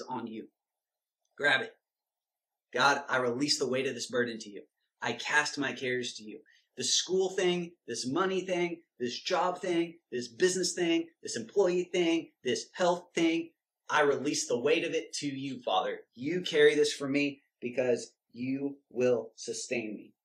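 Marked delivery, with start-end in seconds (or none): 2.7-9.6 demo prayer. Shown as a demonstration. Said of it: "prays the example aloud". 10.3-20.1 demo prayer. Shown as a demonstration. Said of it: "continues the prayer".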